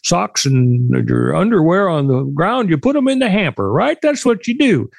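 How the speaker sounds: mock the governor's folksy analogy; mocking Newsom quote. Quoting Gavin Newsom to the co-host, lightly mocking. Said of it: "Gavin Newsom made the analogy".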